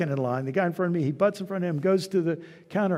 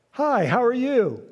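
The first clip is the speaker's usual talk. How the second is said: sincere greeting; 5 semitones higher, 4 dB louder, slower than usual. Shown as a demonstration. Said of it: "I'll give you a second to think about it".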